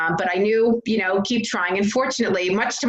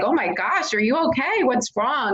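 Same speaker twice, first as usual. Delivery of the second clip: higher-pitched worried questioning; concerned husband; 6 semitones higher than usual. Retold or imitated. Husband finding his wife in tears, imitated concern. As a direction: imitate a startled, concerned partner. Voices husband alarmed at her crying.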